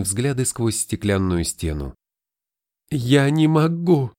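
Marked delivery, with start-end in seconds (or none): 2.9-4.1 slow, muffled words into his chest; face in chest. Acted. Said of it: "уткнувшись ему в грудь, пробормотала она".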